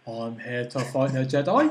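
lightly put-on dim-witted voice; really dumb voice. Imagining the villain facing Jedi, lightly dumb voice. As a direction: play it a bit thick. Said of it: "sounded really dumb".

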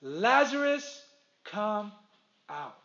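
loud call. Acted. Jesus calls dead Lazarus out of the tomb, slow loud commanding call. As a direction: call him out of the tomb, big and drawn out. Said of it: "he yells in a loud voice".

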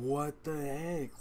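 high, slow and hushed; stunned disbelief. Retold or imitated. Fan reliving the play for a friend, in slow hushed disbelief. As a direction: drag it out, baffled.

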